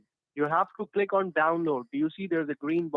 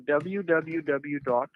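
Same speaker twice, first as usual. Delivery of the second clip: slow dictation; much slower than usual. Real, not acted. Spelling out the web address.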